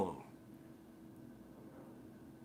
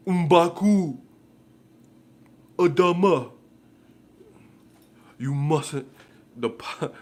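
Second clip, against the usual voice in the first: much higher, louder put-on proclamation; mock movie chieftain; 5 semitones higher, 7 dB louder, slower than usual. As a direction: announce names like a tribal herald. Voicing Black Panther characters.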